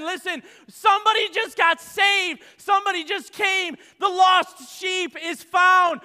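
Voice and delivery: high, loud, exultant preaching; preaching at full force. Acted. Preacher proclaiming the party in heaven, shouting. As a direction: shout the good news.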